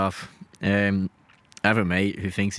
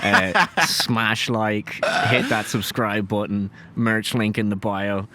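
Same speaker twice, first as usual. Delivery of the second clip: mock influencer; much slower than usual. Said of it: "full-on influencers now".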